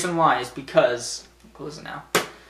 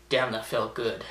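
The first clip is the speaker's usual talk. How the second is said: satisfied wrestler; 3 semitones lower, 8 dB quieter than usual. Acted. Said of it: "And John Cena would be like".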